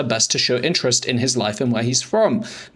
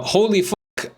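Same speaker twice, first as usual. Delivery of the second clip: stunned exclamation; 8 semitones higher, much slower than usual. Real, not acted. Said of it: "my brain actually had an aneurysm".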